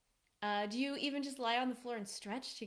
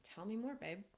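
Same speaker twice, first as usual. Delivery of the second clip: soft, intimate tell me more babe; tender invitation; 5 dB quieter than usual. Shown as a demonstration. Coach showing husbands how to answer wife, soft and tender. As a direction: coax her gently to keep talking.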